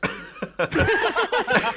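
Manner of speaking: high, loud laugh burst; burst of laughter. Real, not acted. Telling friends about the FaceTime, loud high laugh. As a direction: crack up at the memory.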